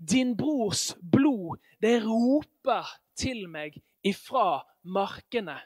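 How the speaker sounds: very slow, solemn voice of God; lightly voiced God, drawn out slowly; a hint of God's solemn judgment, slow; God speaking. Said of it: "sier Herren at".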